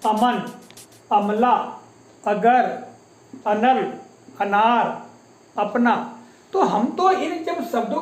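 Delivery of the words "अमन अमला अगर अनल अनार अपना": अमन, अमला, अगर said slowly one by one, each अ short and easy; example words. Shown as a demonstration. Teacher reading example words so pupils hear the natural अ. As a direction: read out each example word with a relaxed अ. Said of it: "यहाँ देखिएगा उदाहरण".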